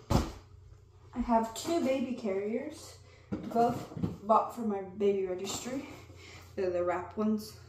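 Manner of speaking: breathless from late pregnancy; out of breath. Real, not acted. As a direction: talk a little short of breath. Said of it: "Sorry if I'm out of breath".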